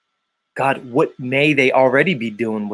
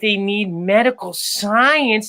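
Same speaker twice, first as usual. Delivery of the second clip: much higher put-on woman's voice; role-play her, pitched way up; playing Special K; 9 semitones higher than usual. Host plays Special K in role swap. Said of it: "I'm gonna be Special K".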